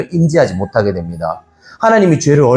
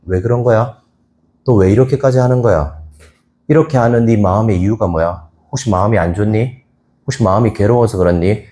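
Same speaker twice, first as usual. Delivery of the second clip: gentle questioning; 3 semitones lower than usual. Retold or imitated. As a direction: coax a troubled youth to open up. Pastor gently asks a youth. (다정하게 묻기)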